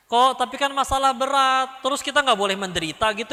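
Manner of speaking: high, pressing complaint; protesting objection. Acted. Listener objects to not being allowed to suffer, protesting.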